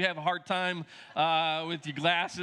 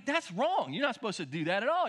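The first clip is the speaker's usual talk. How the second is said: higher-pitched imitation of correcting kids; mock scolding; 5 semitones higher, 4 dB louder than usual. Kids correcting their dad's texting, mock scolding. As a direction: tell dad off, imitating his kids.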